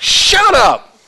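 high yelled command; Bill Clem. Acted. Preacher replaying umpire's line because it feels good, screaming. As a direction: yell it with relish. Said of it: "He just screams at everybody".

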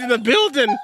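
hyped-up intro announcer. Acted. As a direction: belt it like a show host.

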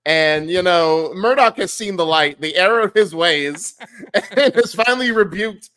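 playful mock sermon; mock preacher. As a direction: preach it like a revival, tongue in cheek. Mock sermon about friend converting.

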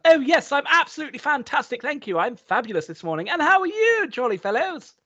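hammed-up upper-class greeting; posh English accent. Overcorrecting her accent with locals, hammed-up posh English. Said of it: "counteract the accent".

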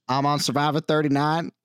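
high, giggling mock intro; laughing contestant intro. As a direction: introduce yourself while cracking up. Contestant self-intro gag.

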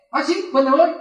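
defiant retort, voice lifting at the end; huffy, rising retort; defiant quitting. Retold or imitated. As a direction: toss back the threat to walk out. Acted quarrel, threatening to quit.

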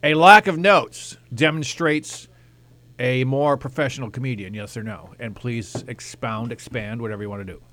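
mock news anchor, measured and deliberate; Tom Brokaw. Comic interviewing comedians about notes, mock broadcaster voice. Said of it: "using his Tom Brokaw voice here".

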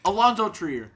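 Leon Rose impression. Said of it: "I'll be Leon Rose".

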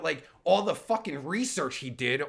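ordinary delivery

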